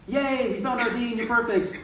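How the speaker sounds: bubbly retold congratulations; delighted. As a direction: imitate gushing casting people. Acting out delighted casting people.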